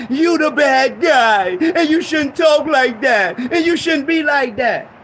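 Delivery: loud, drawn-out mocking of critics; mock scolding critics. Preacher mimicking critics' scolding, loud. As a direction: hammer the critics' words slowly.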